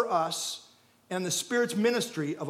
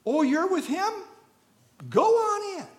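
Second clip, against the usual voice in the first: friendly welcome; 9 semitones higher than usual. Acted. Angels welcoming the believer.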